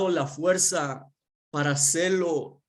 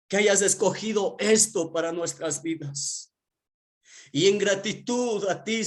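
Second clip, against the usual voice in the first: grateful prayer; 4 semitones higher than usual. Retold or imitated. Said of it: "lo primero que hacía es decirle".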